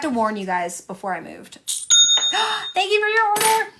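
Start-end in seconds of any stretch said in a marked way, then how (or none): 1.6-2.7 sharp gasp. Real, not acted. Forgot to warn live viewers. 2.7-3.7 cheery order quote. Retold or imitated. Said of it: "That's the second time".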